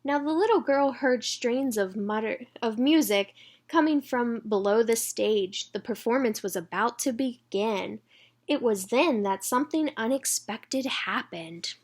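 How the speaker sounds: put-on bright read-aloud for children; storybook reading. A narrator's reading.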